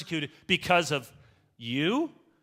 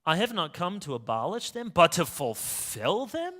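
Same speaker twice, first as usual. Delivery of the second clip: puzzled rereading. Retold or imitated. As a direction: turn the words over as if they sound odd. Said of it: "this fulfillment language, isn't that strange?".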